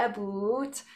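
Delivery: "about" with a Canadian vowel; Canadian accent. Shown as a demonstration. Speaker from Canada owning up to her accent, Canadian "about". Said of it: "That is my accent".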